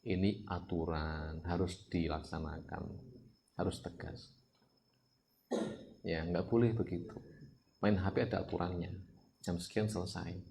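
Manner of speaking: gentle firm talk. Retold or imitated. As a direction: quietly explain the rule, no anger. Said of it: "terus saya bilang".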